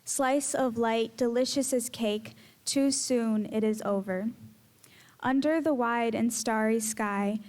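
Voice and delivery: measured, rhythmic poetry reading with pauses; poem recital. Acted. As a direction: let each image land slowly. Spoken word poem recital.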